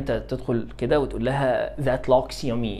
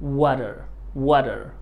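American accent; 4 dB quieter, much slower than usual. Shown as a demonstration. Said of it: "تقولها أمريكي".

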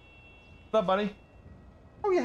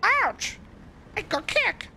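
excited yelling; 10 semitones higher, 6 dB quieter, slower than usual. Real, not acted. Gaming frustration.

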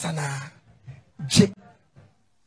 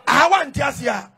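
preacher shout; 2 semitones higher, slower than usual. Real, not acted. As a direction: call it out to the church. Preacher exhorts congregation.

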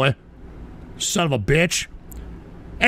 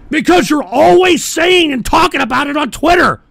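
tag; 5 semitones higher, 4 dB louder than usual. Real, not acted. Accusing a chatter.

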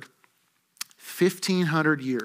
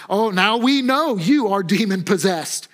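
acted exclamation of accusers; mildly raised, emphatic challenge; exclaimed accusation; 3 semitones higher than usual. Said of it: "at this they exclaimed".

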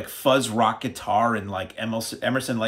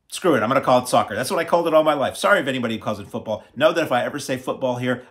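defiant; 2 semitones higher, 5 dB louder, faster than usual. Real, not acted. Defiant rant about soccer naming.

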